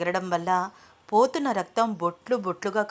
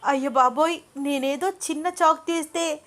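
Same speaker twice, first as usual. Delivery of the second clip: higher, panicked gasp of fear; terrified aside; 6 semitones higher than usual. A narrator's reading. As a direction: panic as the knife touches her neck. Knife at her neck.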